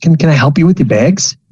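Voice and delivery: high-pitched voice with a chuckle. Offering to carry the new student's bags: Weasel voice. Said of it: "and he kinda chuckles".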